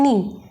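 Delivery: नी said lightly, without any push; unstressed syllable. Shown as a demonstration. Teacher showing an unstressed syllable, नी said easily. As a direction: let नी drop easily, no stress. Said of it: "बिना जोर लगाए easily बोल लेते हैं".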